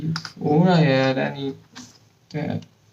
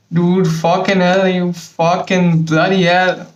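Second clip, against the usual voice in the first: louder, furious swearing at the mess; angry outburst; 3 semitones higher, 5 dB louder than usual. Real, not acted. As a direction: let the frustration burst out, loud. Something goes wrong again.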